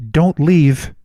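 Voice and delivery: loud, imitated plea from the crowd; retold woman's shout; lone call-out. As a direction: call after him across the room.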